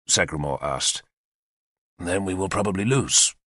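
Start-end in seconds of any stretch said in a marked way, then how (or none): 2.0-3.3 calm admission. Acted. Arthur calmly admits to Sagramore they may lose. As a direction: state defeat as a plain fact, calmly. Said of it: "Arthur admitted calmly".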